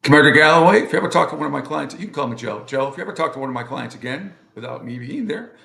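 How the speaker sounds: lightly acted courtroom warning, loud opening address; mock-stern lawyer from a movie; imitated military lawyer. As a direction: call out the officer, then issue a brisk threat. Acting out courtroom movie scene.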